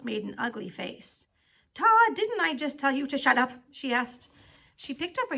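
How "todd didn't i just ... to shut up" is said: loud, angry challenge; stern scolding. A narrator's reading. Teacher rounding on Todd for talking, sternly angry. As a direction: confront the pupil with raised voice. Teacher confronts pupil over shut up.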